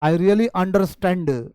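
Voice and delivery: understand said with a full D, understand-d; wrong D in understand. Shown as a demonstration. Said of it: "नहीं बोलेंगे". (understand डी के साथ, गलत उच्चारण)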